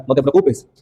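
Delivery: lightly soothing, pitched a bit down; soft reassurance. Shown as a demonstration. Student demonstrating a soft voice to calm someone, mildly reassuring. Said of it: "voz suave para tranquilizar".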